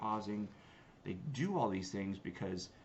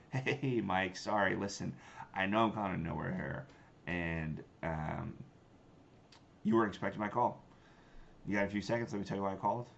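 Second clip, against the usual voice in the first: smiling tone; 3 dB louder than usual. Shown as a demonstration. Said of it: "If you can smile while you're cold calling".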